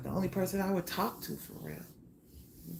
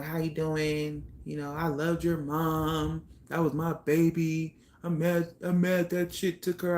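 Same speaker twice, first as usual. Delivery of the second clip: father's voice; 2 semitones lower than usual. Retold or imitated. Father at the funeral talking to his daughter, lightly imitated. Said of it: "I'm sorry I'm doing the voice".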